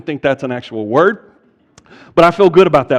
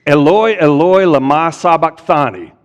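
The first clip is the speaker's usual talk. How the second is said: a raised cry, quoting Jesus on the cross; reading a loud cry from scripture; 3 dB louder than usual. Retold or imitated. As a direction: call it out louder than the reading. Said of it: "Jesus cried with a loud voice".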